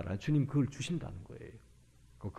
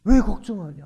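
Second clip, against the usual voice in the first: loud, raised rebuke; Jesus; 8 semitones higher, 10 dB louder than usual. Acted. Jesus challenging the disciples' fear, loud rebuke. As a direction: hit the question hard, much louder and higher. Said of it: "책망하십니다".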